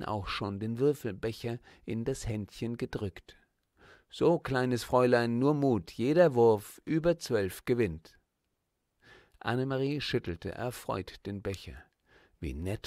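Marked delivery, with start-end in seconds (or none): 4.1-8.2 coaxing stall owner. Acted.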